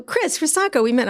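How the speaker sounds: exasperated reminder. Retold or imitated. Friend reminds her they met.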